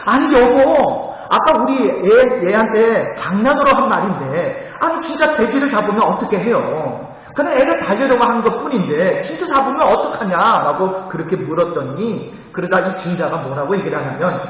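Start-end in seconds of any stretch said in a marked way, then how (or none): 0.0-11.1 surprised wife. Retold or imitated. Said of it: "깜짝 놀라서".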